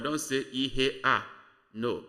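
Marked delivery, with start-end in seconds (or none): 0.5-1.2 "ihe a" with a clear break before A; wrong-way "ihe a", the A split too far off; over-separated A. Shown as a demonstration. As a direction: say "ihe a" as two detached pieces, A on its own. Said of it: "don't separate it so much".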